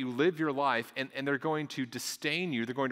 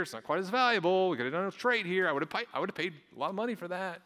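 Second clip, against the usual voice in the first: fretting onlooker; 3 semitones higher, faster than usual. Retold or imitated. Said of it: "and they think".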